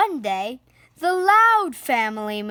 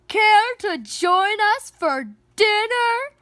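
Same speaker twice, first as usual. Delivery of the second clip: much higher, louder friendly shout; 9 semitones higher, 6 dB louder than usual. Acted. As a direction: call the invitation over the fence. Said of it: "shouted Pa Loud".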